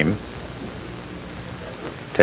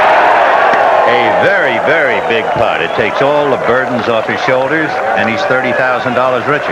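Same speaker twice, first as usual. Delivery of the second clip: excited shout; 4 semitones higher, 3 dB louder than usual. Real, not acted. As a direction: call the winning putt with a shout. Big putt drops, commentator erupts.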